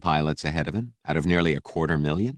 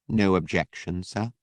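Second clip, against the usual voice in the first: slightly icier. Acted. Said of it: "Was the droid's tone slightly icier?".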